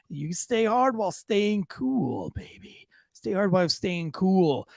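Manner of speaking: slow, suggestive ad line; mock sultry slogan with a dropped whisper. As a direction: drag it out with a wink.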